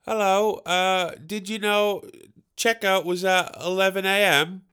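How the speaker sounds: a hint of a hotel lady at the door; lady's voice. Hotel cleaner asking through the door about checkout, lightly put-on lady voice. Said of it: "A lady's voice from the other".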